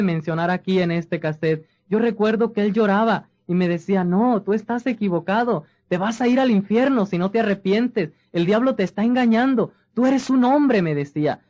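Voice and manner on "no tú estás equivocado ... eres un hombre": rising plea. Retold or imitated. José pleading while crying.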